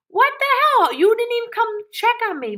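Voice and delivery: very high, loud outburst at husband; retold outraged yell, high and quick; indignant scolding.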